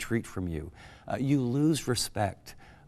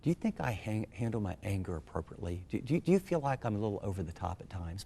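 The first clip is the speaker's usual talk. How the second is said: gentle asking; 6 dB quieter than usual. Shown as a demonstration. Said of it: "Be gentle and just ask".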